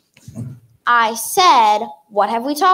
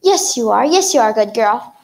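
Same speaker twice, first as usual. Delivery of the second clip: dog praise voice. Acted.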